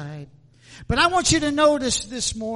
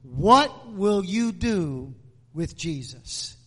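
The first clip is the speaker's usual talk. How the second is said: slowly stretched question; 4 semitones lower, slower than usual. Shown as a demonstration. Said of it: "I want to speak to you this morning on the subject".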